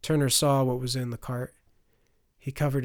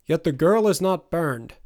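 raised, louder stilted noblewoman; stilted high society; 4 semitones higher, 6 dB louder than usual. A narrator's reading. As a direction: speak as a stiff high-society lady. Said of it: "stilted tongue of high society".

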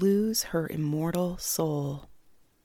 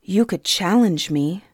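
held-back even tone; girl restraining her anger at the king; evenly; 4 dB louder than usual. Acted. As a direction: hold your temper, keep it level. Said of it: "Suni said evenly".

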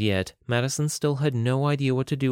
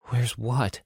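mild nervous squeak; a touch of startled fright; timid squeak; 2 semitones higher than usual. Acted. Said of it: "Madison squeaked".

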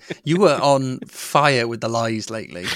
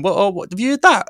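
mock shock; 8 semitones higher, 4 dB louder than usual. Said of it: "me going to my other friends going".

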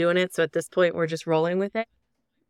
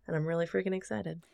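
quiet, calm and unhurried; said calmly; 6 dB quieter, faster than usual. Real, not acted. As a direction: understate the excitement, softly. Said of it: "saying that so calmly".

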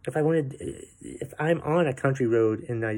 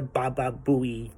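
slow, whiny mock plea for attention; lightly parodying an attention-hungry generation; mocking attention seeker; slower than usual. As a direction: sneer it like a needy show-off. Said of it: "We're the".

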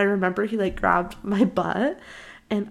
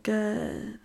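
softer, stretched-out short answer; odd boy voice; 7 dB quieter than usual. Retold or imitated. Crush answering how he is, odd boy voice. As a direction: imitate his odd, drawn-out reply. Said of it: "He literally talked like this".

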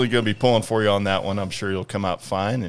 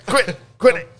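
very high, squeaky protest; whiny baby voice; 14 semitones higher, 4 dB louder than usual. Pretend. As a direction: squeak it like a fussy toddler. Joins the Baby Yoda voice.

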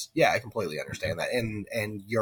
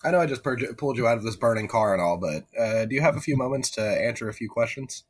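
pushy reporter; 6 dB louder than usual. Pretend. Mock reporter at car crash.

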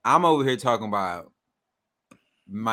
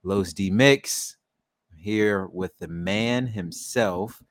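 podcast host welcome in a lower register; show intro; 6 semitones lower than usual. Acted. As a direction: introduce your co-host like a hype man.

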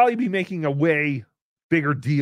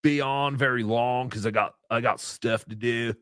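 lazy surfer-dude impression; put-on slacker voice with dopey chuckles. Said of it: "he does not talk like a surfer".

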